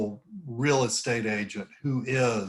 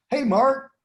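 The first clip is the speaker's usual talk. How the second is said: high, loud hail with "Mark" pitched way up; going up on the name; 13 semitones higher, 7 dB louder than usual. Shown as a demonstration. Spotting Mark on a webinar, going up on the name. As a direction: greet a friend, voice leaping on "Mark". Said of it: "if I go up on the name".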